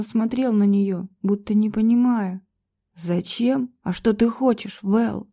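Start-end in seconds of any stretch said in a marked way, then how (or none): none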